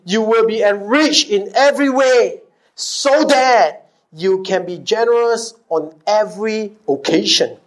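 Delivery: slow, deliberate scripture reading; measured, slow reading aloud; read very slowly. Shown as a demonstration. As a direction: let each word land, slowly. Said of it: "read that very slowly".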